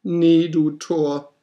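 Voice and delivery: very high, loud, slow croak; croaking raven. Acted. Raven answers the desperate narrator, very high and slow. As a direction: stretch the croak out harshly. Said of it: "Sprach der Rabe".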